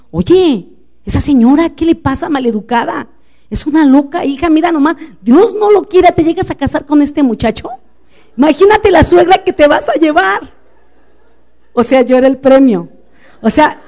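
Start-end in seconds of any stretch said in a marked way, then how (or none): 0.1-10.5 mamá indignada. Retold or imitated. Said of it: "entonces la mamá va a decir".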